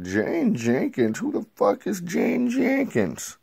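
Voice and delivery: who on earth is that, climbing high; mock bewildered shriek; baffled outburst. Hero baffled by unknown name.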